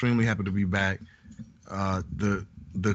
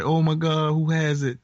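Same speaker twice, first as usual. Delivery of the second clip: alarmed sister; 8 semitones higher, 5 dB louder than usual. Retold or imitated. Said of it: "her sister was like".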